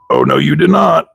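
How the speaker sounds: high, sassy "Oh, no, you did not"; sassy disbelief. Real, not acted. Sassy disbelief at a broken part.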